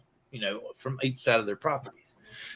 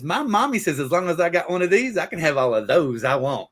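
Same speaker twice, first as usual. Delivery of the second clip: lightly voiced girl, higher and louder; triumphant little girl; 3 semitones higher, 5 dB louder than usual. Little girl topping boy's boast, lightly acted triumph. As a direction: deliver a child's winning comeback.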